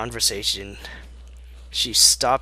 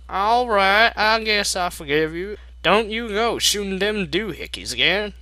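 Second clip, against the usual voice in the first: much higher, reluctant forgiving mare; high Applejack voice; 8 semitones higher, 4 dB louder than usual. Acted. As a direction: grudgingly let him off the hook.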